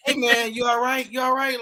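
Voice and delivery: lightly acted, calling to a fallen buddy; mock concern. Friend checking on man who fell down stairs, mock concern.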